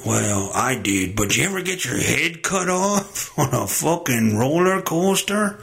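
ordinary delivery

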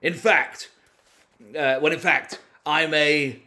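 hesitant, halting politician impression; Boris Johnson. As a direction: stop and restart like a bumbling politician. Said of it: "Boris Johnson here".

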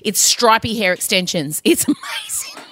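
high-pitched enthusiasm breaking into laughter; excited gushing. Real, not acted. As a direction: gush delightedly, starting high. Gushing over an old TV season.

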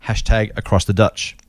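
Kiwi vowels, Dutch for ditch; Kiwi accent. Retold or imitated. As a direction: read it like a New Zealander. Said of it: "I'm doing the Kiwi accent".

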